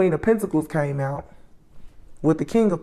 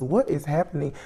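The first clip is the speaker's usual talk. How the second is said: sick voice. Real, not acted. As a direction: voice worn from illness.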